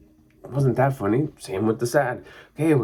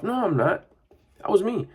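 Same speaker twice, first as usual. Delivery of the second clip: put-on defensive kid; 11 semitones higher than usual.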